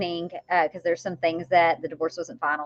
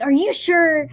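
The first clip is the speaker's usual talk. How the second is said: Southern friend; 9 semitones higher, 6 dB louder, slower than usual. Retold or imitated. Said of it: "just hilarious and just Southern".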